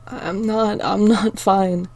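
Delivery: slow, halting tearful words; through tears. Acted. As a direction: force it out while crying. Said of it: "I said through tears".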